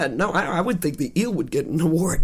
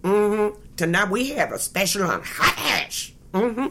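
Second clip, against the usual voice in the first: blues singer voice; 2 semitones higher than usual. Pretend. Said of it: "She sounds like I'm doing a Dirty Blues band".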